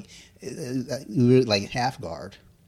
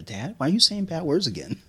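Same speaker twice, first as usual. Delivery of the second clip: put-on high little-girl voice, mildly scolding; imitating his daughter; 10 semitones higher, 4 dB louder than usual. Dad mimics his daughter catching him swearing. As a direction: squeak it out like a six-year-old. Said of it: "she'll come down and hear".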